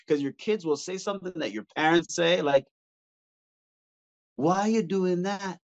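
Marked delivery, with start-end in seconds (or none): 4.4-5.6 slow, drawn-out parental question; a child imitating mom, slowly and deliberately; mother's scolding. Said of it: "say it exactly like your mom".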